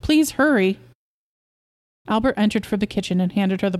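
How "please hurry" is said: high, pressing please; anxious mother over a screaming infant; urgent plea. Acted. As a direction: beg him to hurry. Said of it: "she called".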